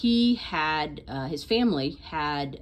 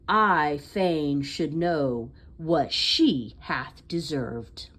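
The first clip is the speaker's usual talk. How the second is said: poem recitation; 3 dB louder than usual. Acted. Reading a favorite Thomas Wyatt poem aloud for listeners, expressive recitation. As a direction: recite with emphatic line openings and pauses between phrases.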